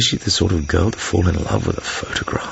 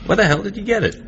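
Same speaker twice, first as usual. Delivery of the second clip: quick, higher, startled question; surprised; 11 semitones higher, faster than usual. Acted. Bond asks his host about the periscope, startled. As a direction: blurt it out, caught off guard.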